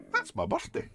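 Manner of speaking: high, startled "that's my birthday"; wife suddenly realising the date; surprised realisation. Retold or imitated. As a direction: blurt it out in sudden alarm. Wife's sudden realisation, retold.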